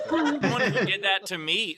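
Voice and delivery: laughing while talking; chuckling through words. Real, not acted. Laughing while starting story.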